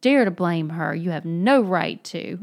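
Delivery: loud, heated scolding; hot rebuke. Acted. Alyosha scolding Mitya for blaming her, heated cry. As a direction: rebuke him hotly, leaning on the words. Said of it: "Alyosha cried hotly".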